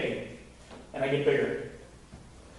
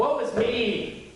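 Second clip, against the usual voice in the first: mock self-pity; 4 semitones higher, much slower than usual. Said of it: "is what the flesh says".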